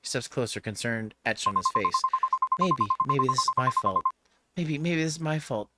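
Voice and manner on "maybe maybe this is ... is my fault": higher-pitched, faltering guilt; distressed and remorseful; anguished self-blame. Acted. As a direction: blame yourself, voice climbing.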